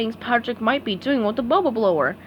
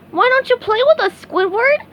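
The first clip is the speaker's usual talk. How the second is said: SpongeBob voice; 13 semitones higher, 6 dB louder than usual. A narrator's reading. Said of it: "asked SpongeBob".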